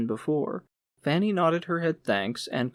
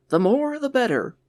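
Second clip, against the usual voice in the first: a louder, welcoming official voice; hearty manager; 10 semitones higher, 6 dB louder than usual. A narrator's reading. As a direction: greet him like a showman host. Manager answers eagerly.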